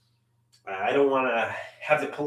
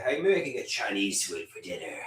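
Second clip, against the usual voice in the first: lower, softer and fast, tossed off to himself; quiet low mutter; 8 semitones lower, 6 dB quieter, much faster than usual. Real, not acted. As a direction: mumble it quickly under your breath. Musing about dinner twice.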